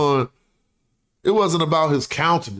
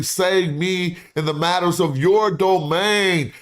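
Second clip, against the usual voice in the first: dramatic orator reading; 3 semitones higher than usual. Acted. Reads ancient plea aloud.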